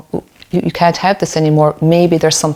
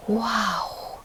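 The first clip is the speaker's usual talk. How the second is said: put-on impressed boy; 6 semitones higher, 12 dB quieter than usual. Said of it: "a lot of boys go".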